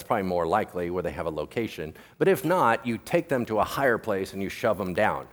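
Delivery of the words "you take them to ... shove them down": ordinary delivery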